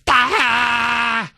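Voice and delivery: high mock shriek of a caller; hammed-up squeal. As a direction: imitate a caller squealing as he hangs up. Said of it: "whether he was shrieking".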